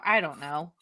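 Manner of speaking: whisper. Real, not acted. Trailing off, unsure.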